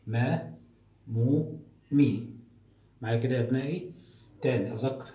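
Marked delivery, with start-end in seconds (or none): 0.1-2.3 teacher repeating the drill aloud; loud and clear again. Shown as a demonstration. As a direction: call each syllable out loudly. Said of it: "كمان مرة".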